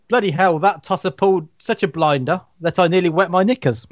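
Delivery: lightly posh English reading; a hint of a posh Brit; posh British accent. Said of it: "I need to do it in a posh voice now".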